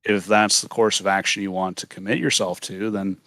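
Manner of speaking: supervillain voice. Acted. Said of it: "that's why I have the supervillain voice".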